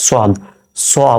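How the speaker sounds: "সোয়াদ" with a rounded, heavy "swa"; heavy swad sound. Shown as a demonstration. Teacher asking learners to note the sound, rounded "সোয়াদ". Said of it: "উচ্চারণটা খেয়াল করেন".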